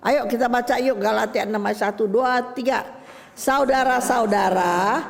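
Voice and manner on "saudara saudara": slow, drawn-out verse reading; stretched-out Bible recitation; scripture reading. Acted. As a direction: read the verse out slowly and deliberately. Reads a Bible verse aloud.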